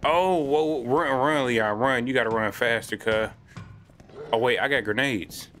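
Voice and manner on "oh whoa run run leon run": being chased. Real, not acted. Boss chasing Leon in game.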